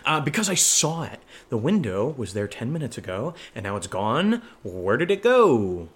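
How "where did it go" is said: slow, drawn-out question, swooping up; mock mystery. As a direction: stretch it out for dramatic effect. Acted mystery of vanished window.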